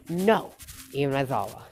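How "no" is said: loud, high shout. Retold or imitated. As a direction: yell it all together to stop him. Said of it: "Everyone in the class in unison said".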